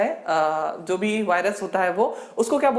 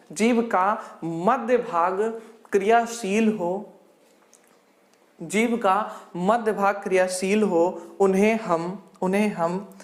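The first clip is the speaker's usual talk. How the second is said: dictating notes; 3 semitones lower than usual. Acted. Dictates a definition to write.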